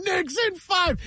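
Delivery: high, drawn-out mock yell; high-pitched re-enacted boat chant; retold yelling. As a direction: imitate chanting across the water without full volume. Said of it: "and I'm yelling".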